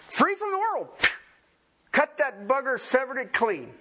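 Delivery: high ringing preacher's cry; soaring shout of freedom; fervent preaching. Acted. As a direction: sing it out high, triumphant. Preaching climax.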